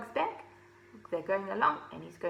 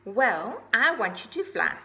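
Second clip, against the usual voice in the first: firm, louder mother scolding; stern mother owl; 6 dB louder than usual. Acted. Mother owl sternly ordering Ozzy to fly, loud and firm. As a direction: lay down the law to her lazy son. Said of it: "said Mother Owl sternly".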